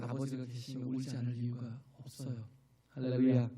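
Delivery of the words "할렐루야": loud ringing call of praise; fervent loud hallelujah; shouted hallelujah. Real, not acted. Preacher calls out praise.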